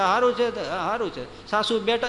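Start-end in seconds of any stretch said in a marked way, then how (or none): 0.0-0.5 bright reply. Retold or imitated. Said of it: "કેમ છો Kanta?". 0.5-1.5 muted reply. Retold or imitated. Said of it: "કેમ છો કાંતા?".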